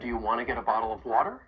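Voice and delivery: "Do you wanna get a bottle of water" run together quickly; fast connected speech, "wanna" and "get a" joined; linked question. Shown as a demonstration. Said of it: "build on that phrase that we were practicing".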